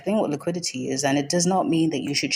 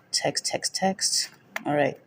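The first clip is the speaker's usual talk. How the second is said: muttered whisper; 3 dB quieter, slower than usual. Real, not acted. Muttering to self setting up.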